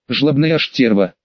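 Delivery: mumbled through a gag; words muffled by a cloth gag; gagged. Acted. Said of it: "промычал я через кляп".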